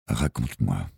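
put-on softly coaxing, as to a small child; gentle, quieting voice; gentle, soothing. A narrator's reading. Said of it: "Sa voix était douce, apaisante".

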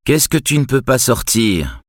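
faraway, absent-minded voice; distant voice. A narrator's reading. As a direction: speak as if your mind is elsewhere. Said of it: "dit-il d'une voix lointaine".

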